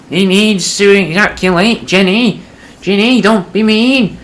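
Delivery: put-on very high, loud, slow old man whine; quavering old man, outraged and drawn out; upset old man. Old husband to wife Ginny, high wavering outraged whine.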